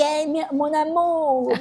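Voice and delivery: sarcastic lovey-dovey drawl on amour; mocking sweet-talk. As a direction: stretch out mon amour like a teasing coo. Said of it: "Que ela é debochada".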